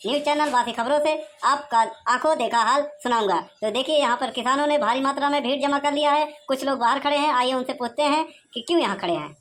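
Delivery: brisk TV reporter delivery; reporter's news read. Acted. Reporter addressing viewers, on-camera news voice. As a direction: present it like a field reporter to camera.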